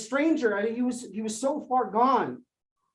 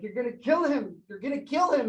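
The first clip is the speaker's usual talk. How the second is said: a half-voiced retold yell, climbing; a mild mock yell of the friend; 5 semitones higher, 4 dB louder than usual. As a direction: echo the friend's warning shout, higher the second time. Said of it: "he was yelling".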